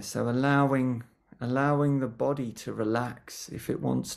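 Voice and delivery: gentle guiding voice with long pauses between phrases; guided meditation. Real, not acted. Teacher settling a group before a mindfulness session, guided meditation. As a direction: ease listeners into stillness, leaving lots of silence. Leads a short grounding meditation.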